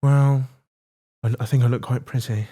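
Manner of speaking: lightly talking out the side of the mouth; a hint of a lopsided, pouty voice; Keira Knightley impression. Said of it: "when I'm doing a Keira Knightley impression".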